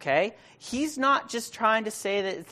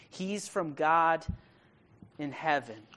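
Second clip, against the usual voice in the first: slow emphatic statement; slower than usual. Acted. Stressing the first point.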